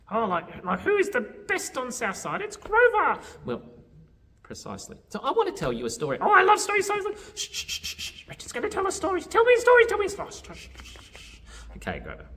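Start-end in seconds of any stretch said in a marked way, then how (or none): 0.1-3.2 cocky high puppet voice; high puppet chatter building to a loud boast; Grover. Pretend. 6.2-11.4 excitable, very high puppet voice; loud puppet squeals broken by hurried shushing; Grover. Pretend.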